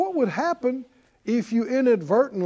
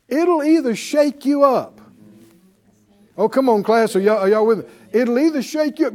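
ordinary delivery

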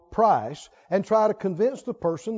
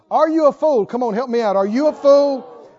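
calling out; 2 semitones higher, 5 dB louder than usual. Real, not acted. Preacher challenging congregation.

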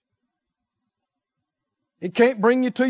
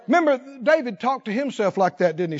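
normal talking voice

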